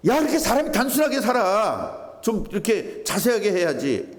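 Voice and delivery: high, scolding mock protest; fussy Jeolla type. Preacher mimicking a Jeolla person chiding a too-simple neighbour, mock scolding. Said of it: "그럼 전라도 사람은".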